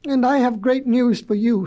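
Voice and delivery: mildly tearful retort; a touch of a sob in the voice; hurt, lightly acted sobbing; sobbed. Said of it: "sobbed Betsy".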